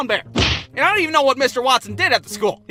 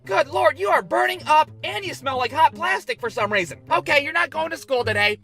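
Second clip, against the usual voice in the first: worried mom; 5 semitones higher than usual. Retold or imitated. Mom checking fever.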